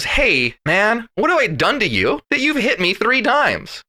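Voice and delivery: a high, chatty donkey asking what it did; casual donkey voice. Retold or imitated. Host voicing the complaining donkey, high and casual. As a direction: toss it off like a buddy.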